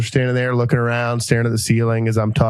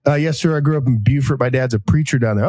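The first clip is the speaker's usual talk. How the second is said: Foghorn Leghorn drawl. Retold or imitated. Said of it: "pull a Froghorn Leghorn voice".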